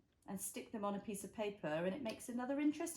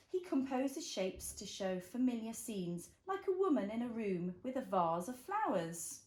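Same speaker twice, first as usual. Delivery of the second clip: put-on reading to a toddler. A narrator's reading. Reads picture book to child.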